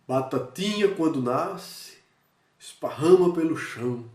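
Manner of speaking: demonstrated poem-reading cadence; poetry recital. Shown as a demonstration. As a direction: recite it like a nursery rhyme, drawing out the words. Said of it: "mudar meu ritmo da voz".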